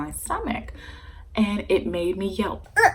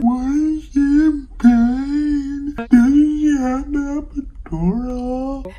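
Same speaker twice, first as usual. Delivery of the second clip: high, slow, louder wailing question; mock crying sister; 9 semitones higher, 8 dB louder, slower than usual. Crying sister to staff, mock tearful wail. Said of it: "She's like".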